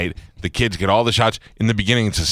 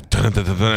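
imitated suspense music. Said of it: "then the music goes".

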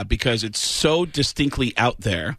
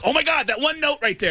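excited; 11 semitones higher than usual. Retold or imitated. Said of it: "I'm like".

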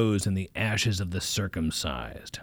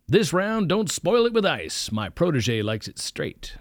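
slow, lightly raised preacher's order; hearty order; 8 semitones higher, slower than usual. Acted. Preacher telling the waiter no ice, slow and grand. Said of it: "he shouted to the waiter".

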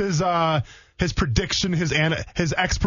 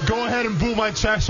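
cocky heel taunting the crowd; high, smug, daring them to boo; sneering wrestling villain; 8 semitones higher than usual. Pretend. Daring listeners to boo his outfit.

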